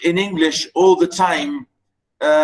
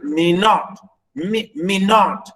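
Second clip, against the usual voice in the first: me not with light me and strong NOT; low-then-up stress. Shown as a demonstration. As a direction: lift and lengthen NOT in me not. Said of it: "you start low and go up".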